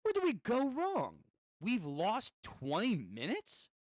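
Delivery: a startled rider realizing he's lost; Gyro yelps in alarm at losing his way; Gyro panicking. Acted. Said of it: "And then Gyro".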